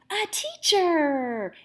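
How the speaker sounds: slow, drawn-out chorus shout; class answer. Acted. Children shouting their answer to the teacher. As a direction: call it out like a whole class. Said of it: "everyone responded".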